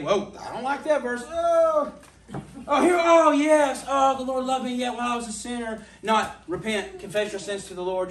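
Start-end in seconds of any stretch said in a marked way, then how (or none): 0.0-5.9 high, loud startled oh, laughing; comic surprise over a Bible verse, higher and louder; startled reading. Retold or imitated. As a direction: act shocked at a verse then relieved.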